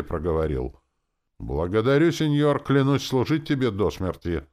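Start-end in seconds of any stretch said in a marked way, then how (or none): 1.4-4.4 high, loud pledge of loyalty; devoted oath. A narrator's reading. Revived soldier swears service to his new lord, devoted. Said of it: "преданно на меня глядя".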